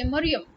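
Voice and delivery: Mariam as MUR-yum, short first vowel; short 'uh' in both ends of Mariam; real name form. Shown as a demonstration. Teacher showing you can say the real name, MUR-yum. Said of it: "real name is Mariam".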